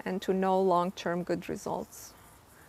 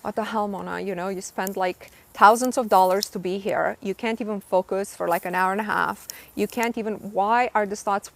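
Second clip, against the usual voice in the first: retold exasperated self-scolding, bursts of louder stress; mad at herself; 5 dB louder than usual. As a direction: scold yourself in a mildly angry retelling. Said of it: "I'm getting mad with myself".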